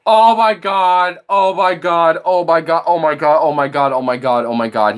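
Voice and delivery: stunned, sinking repeats; shocked laughter. Real, not acted. Reacting in disbelief to the caller.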